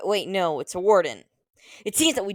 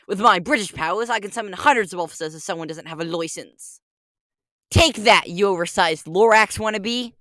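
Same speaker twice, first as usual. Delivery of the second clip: put-on British accent, taunting the Lorax. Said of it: "British Walrus Detective".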